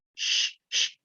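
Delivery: a voiceless hushing "sh-"; sh sound demo. Shown as a demonstration. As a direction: breathe out a clean "sh-". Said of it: "Shh, dan ulangi".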